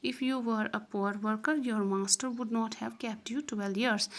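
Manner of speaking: slow, deliberate reading of the English text; slow story reading. Acted. Teacher reading the story aloud to students, slow and deliberate. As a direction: read each phrase slowly for the class.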